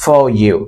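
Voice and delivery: "for" with a long vowel and no R before "you"; silent R. Shown as a demonstration. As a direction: say "for you" as "faw you", the R dropped. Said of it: "এখানে আর এর উচ্চারণটা হবে না". ("for you"-তে "র" উচ্চারণ ছাড়া "ফ-ইউ")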